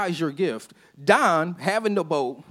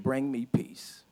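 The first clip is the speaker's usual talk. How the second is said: quiet plea; 5 semitones lower, 10 dB quieter, much slower than usual. Retold or imitated. Young man's quiet request.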